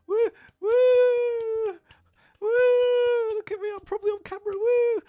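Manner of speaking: very high squealed cheers; shrill, over-keen whoops; mock crowd whooping. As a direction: squeal like an attention-seeking fan. Imitates crowd whooping for the camera.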